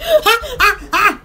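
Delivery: quacking little cries; duck-like squawks. Real, not acted. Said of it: "Oh, I sound like a duck".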